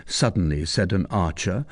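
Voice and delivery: ordinary delivery, nothing marked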